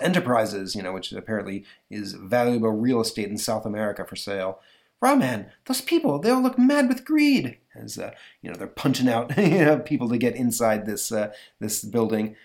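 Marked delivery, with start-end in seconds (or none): 5.0-7.6 high-pitched, loud woman character voice; high, urgent cry to the hero; alarmed heroine. Acted. Heroine alarmed at frenzied crowd.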